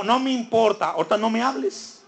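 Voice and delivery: mock-angry refusal to listen, voice rising at the end; enojado. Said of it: "estoy enojado". (enojo fingido, tono más agudo)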